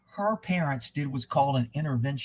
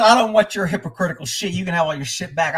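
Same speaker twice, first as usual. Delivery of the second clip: furious; 3 semitones higher, 4 dB louder, faster than usual. Retold or imitated. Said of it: "I was furious".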